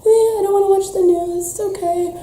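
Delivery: breezy denial, voice lifted up and away; lightly mocking someone avoiding the news; airy mock denial. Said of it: "you're still up here like".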